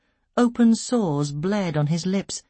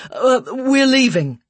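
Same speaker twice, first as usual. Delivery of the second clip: firm refusal; 8 semitones higher, 7 dB louder than usual. A narrator's reading. Husband refuses the care worker.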